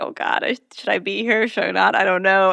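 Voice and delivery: lightly voiced flustered boyfriend, half-breathed start; flustered stammer. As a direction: stumble over the words, caught off guard. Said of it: "Dean is stuttering about".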